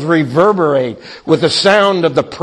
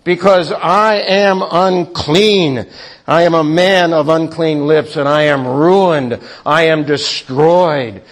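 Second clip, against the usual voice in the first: lament. Acted. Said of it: "Then I said".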